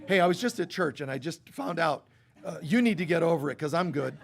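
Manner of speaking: lightly played self-satisfied dismissal, laughing; a hint of a glib churchgoer telling family to get over it; mock smug brush-off. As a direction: toss it off as a smug joke. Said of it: "you don't say that to them".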